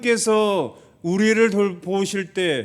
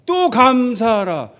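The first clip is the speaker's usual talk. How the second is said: building command; 2 semitones higher, 4 dB louder, slower than usual. Shown as a demonstration. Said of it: "계속 하는 거예요".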